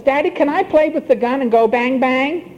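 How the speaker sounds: put-on quick, high pleading of a three-year-old; a light mock child begging Daddy; preacher voicing a small child asking for the gun; eager toddler. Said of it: "your three-year-old says".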